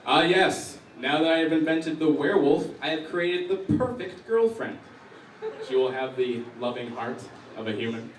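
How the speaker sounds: loud, grandiose evil scientist voice; hammed-up villainous scientist announcement; mad scientist impression. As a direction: proclaim it like a proud mad inventor. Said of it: "This is my impression of the scientist that invented werewolves".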